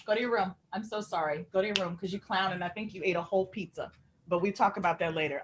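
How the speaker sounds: soft reprimand to a dog; quiet aside scolding. Real, not acted. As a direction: send the dog away under your voice. Scolding the dog aside mid-interview.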